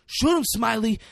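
high, loud mock scream; screaming urging. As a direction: egg him on, yelling in imitation. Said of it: "they're screaming and stuff".

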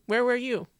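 imagined comeback thrown back at them; indignant retort. Retold or imitated. Retorting in her head.

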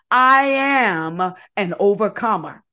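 bold declaration. Shown as a demonstration. Leader declaring an affirmation for the crowd to repeat. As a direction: proclaim it so they echo it. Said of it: "So repeat after me".

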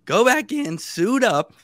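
high, disbelieving listing of chores; exasperated. Real, not acted. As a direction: rattle it off, annoyed and amazed. Exasperated retelling of going back.

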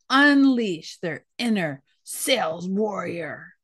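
slow, weighty warrior voice. Pretend. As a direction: proclaim it like a battle cry. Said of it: "Gotta use my warrior voice for that".

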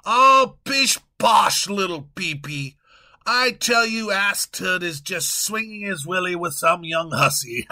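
loud, hearty royal bluster; a pompous king laughing off worries; booming self-satisfied monarch; jolly king. Acted. King figure in sketch.

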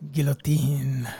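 guillotine whispered, French style; whispered word. Shown as a demonstration. Co-host whispers guillotine to show it is French. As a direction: breathe the word guillotine slowly. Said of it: "Think of the word".

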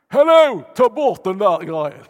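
loud, high call in broad Scanian. Retold or imitated. A fellow Scanian abroad calling out loudly in dialect. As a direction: shout it across a foreign street.

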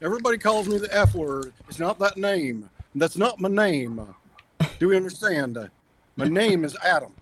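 lightly voiced Frankenstein monster; Adam's monster voice. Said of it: "I gotta do it in Adam's voice".

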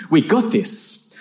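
slow, drawn-out confidence; cocky reassurance. Retold or imitated. Cousin reassures the outnumbering trio, slow and cocky. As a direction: stretch it out, sure of yourself. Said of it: "he looks at me and goes".

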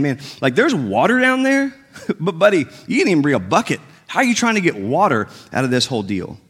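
amused, incredulous jab with a laugh; teasing disbelief. Retold or imitated. Woman teases the stranger about the missing bucket, amused disbelief. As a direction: needle him about the bucket.

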